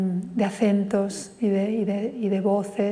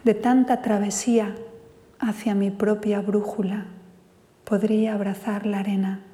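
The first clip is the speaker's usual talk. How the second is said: poem recital. Acted. A poet reads his poem Contigo to the audience, measured recital.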